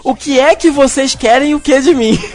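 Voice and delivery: reading it out through a laugh. Retold or imitated. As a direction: read the line while laughing. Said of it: "Olha o que ela escreveu".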